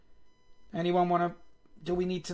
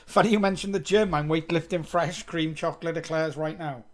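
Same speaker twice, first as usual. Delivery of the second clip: playful joke; 2 semitones higher, 4 dB louder than usual. Real, not acted. Joking reply to chat about gym.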